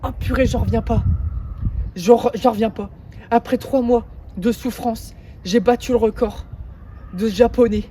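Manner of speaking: loud amazed exclamations; can't believe it, shout it; elated and loud; thrilled disbelief. Real, not acted. Thrilled after the record.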